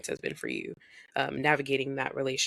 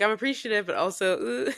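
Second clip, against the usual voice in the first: mock mom; 6 semitones higher than usual.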